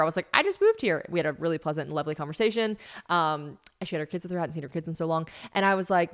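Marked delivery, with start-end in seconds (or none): 0.3-1.0 very high chatty imitation; high-pitched retold small talk; chirpy reply.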